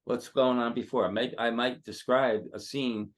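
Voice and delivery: emphatic, animated pep talk; getting excited while coaching; real excitement. Real, not acted. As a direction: fire up the performer, driving the words home. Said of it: "I'm getting kind of excited now".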